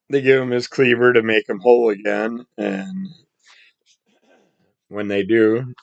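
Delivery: raspy just-woke-up voice; scratchy, rough morning throat. Real, not acted. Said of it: "that's such a scratchy voice in the morning".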